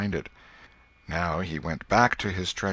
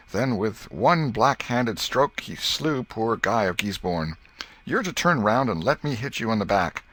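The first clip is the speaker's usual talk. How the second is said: indignant argument; 5 semitones higher, 4 dB louder than usual. Acted. Tom arguing the rules.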